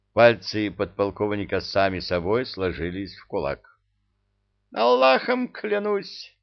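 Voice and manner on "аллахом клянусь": high, slow, desperate swearing; pleading emir oath. Acted. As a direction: cry it out like a cornered emir.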